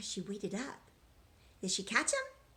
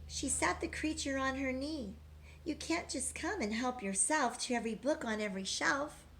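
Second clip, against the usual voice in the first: rhythmic storybook read-aloud; reading to children; 3 semitones higher than usual. A narrator's reading. Teacher reading a rhyming picture book to children, sing-song. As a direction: read the rhymes to the class, lilting.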